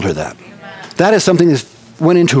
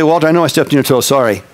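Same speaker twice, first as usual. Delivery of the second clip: a quick brush-off, not really asking; offhand apology; faster than usual. Retold or imitated. Pastor brushing off the man whose toe he stepped on, offhand. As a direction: rattle off the apology fast, then toss "Sorry" away. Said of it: "I am talking down to him".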